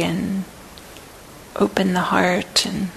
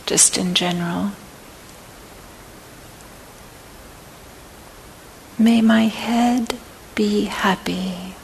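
guided meditation; 6 dB quieter than usual. Acted. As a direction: guide them gently through each phrase, unhurried. Leads a loving-kindness body scan.

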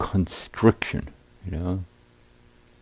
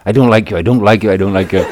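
speeding up; 3 semitones higher, 9 dB louder, much faster than usual. Retold or imitated. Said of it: "saying it faster and faster".

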